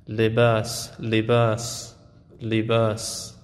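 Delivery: لباس with a short i and long front A; Arabic long a. Shown as a demonstration. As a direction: say لباس as li-baas, unrounded.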